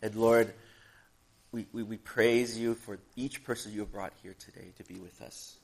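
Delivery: measured, reverent prayer delivery. Acted. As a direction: pray simply, addressing God for the congregation. Leads opening prayer.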